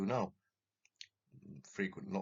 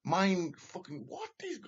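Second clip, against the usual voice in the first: agitated; 11 semitones higher, 4 dB louder than usual. Real, not acted. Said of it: "I freaked out".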